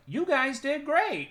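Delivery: high, slow cheery praise; cheery director voice. Retold or imitated. Streamer quoting the director's praise, high cheery voice. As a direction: sing it out like an upbeat boss.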